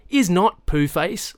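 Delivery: high, loud little-sister protest; childish retort. A narrator's reading. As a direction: squabble back like an indignant kid sister. Little sister snaps back at brother.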